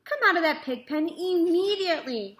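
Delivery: high, loud mother's scolding; scolding cry. A narrator's reading. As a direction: call him out sharply. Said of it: "cried Missus Arable".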